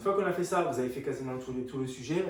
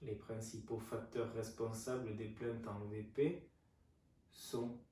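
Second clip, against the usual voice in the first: dictating; 2 semitones lower, 7 dB quieter than usual. Shown as a demonstration. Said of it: "je vous laisse noter".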